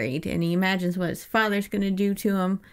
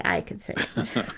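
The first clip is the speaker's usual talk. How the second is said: whispered; 9 semitones lower, 4 dB quieter than usual. Retold or imitated. Kid's sly conclusion, hushed.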